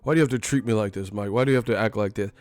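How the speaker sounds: quick, prim, fussy pleading; mock proper interviewer. Interviewer whining at Mike, quick and proper. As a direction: plead primly and fast. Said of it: "you get all proper".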